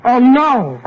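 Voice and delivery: high, loud cry of dismay. Acted. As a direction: wail it out in dismay. Dismay at seeing her again.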